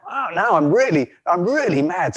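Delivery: worked-up, hammed-up anger; infuriated. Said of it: "just infuriated him. He's like".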